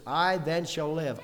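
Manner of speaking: slow, weighted "I" opening the phrase; stress on I. Shown as a demonstration. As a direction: lean on "I" as personal. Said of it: "could almost do that here this morning".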